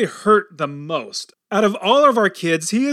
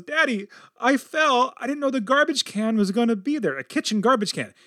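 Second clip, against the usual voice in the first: put-on hurt little boy; 6 semitones higher than usual. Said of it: "apparently he goes".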